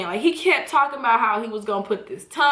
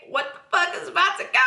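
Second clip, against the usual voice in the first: panicked thought; 6 semitones higher, faster than usual. Retold or imitated. Panicked inner thought in bed.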